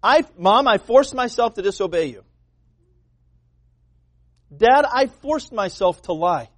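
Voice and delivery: put-on child's squeaky excuse; mock child excuse. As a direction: lightly play a kid making excuses. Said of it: "you'll be like".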